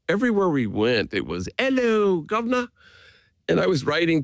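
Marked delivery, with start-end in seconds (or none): 1.6-2.7 high, bright sing-song Hello, governor; loud greeting. Retold or imitated. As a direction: sing it out in a Glasgow voice across the lobby. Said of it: "in the loudest voice imaginable".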